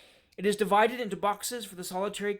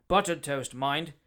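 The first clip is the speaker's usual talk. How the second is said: a stern, louder demand; fierce; 2 semitones lower, 4 dB louder, slower than usual. Acted. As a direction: bark the order at the waiter. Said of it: "said the gentleman fiercely".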